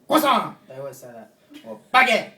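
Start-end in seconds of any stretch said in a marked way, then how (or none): 0.1-0.6 put-on sudden high, very loud French-accented shout; mock French yell. French guys who always say that, mock French yelling. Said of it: "they yell it every time". 1.9-2.3 put-on high, explosive French-accented shout; mock French yell. French guys who always say that, mock French yelling. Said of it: "they yell it every time".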